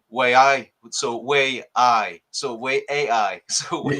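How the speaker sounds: drawn-out, slow Geordie "way aye"; broad Geordie catchphrase. Shown as a demonstration. Newcastle man obliging a chat request, playful Geordie. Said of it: "He just wants me to say it".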